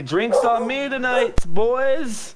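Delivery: high, loud tavern call; buying everyone a round, shouting it out; calling out to the room. Acted. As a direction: announce a round for the whole bar.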